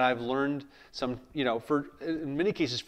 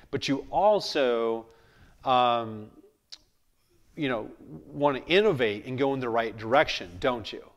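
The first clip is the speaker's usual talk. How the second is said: confident command. Shown as a demonstration. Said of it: "that's a confident way of asking".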